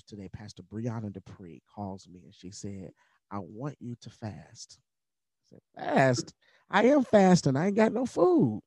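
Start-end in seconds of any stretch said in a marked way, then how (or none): 3.3-4.8 slow, soft and firm, like a pastor's order; a calm, deliberate command; pastor's instruction. Retold or imitated. 5.8-8.6 much higher and louder, in disbelief; incredulous outburst. Retold or imitated. Disbelieving reply to pastor.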